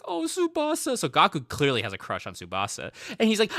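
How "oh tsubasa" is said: lovestruck sigh. Retold or imitated. Gaku swoons over his crush.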